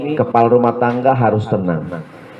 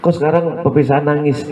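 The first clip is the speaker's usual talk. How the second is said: 1 journalist asking; 5 semitones higher, faster than usual. Retold or imitated. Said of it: "Kata wartawan".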